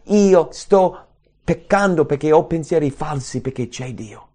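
ordinary talk, nothing marked

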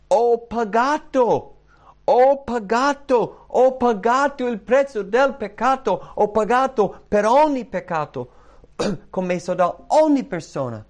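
high, loud, emphatic cries; triumphant proclamation. Acted. Jesus declaring the price of sin paid, loud exultant shout. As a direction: shout each phrase out with full force.

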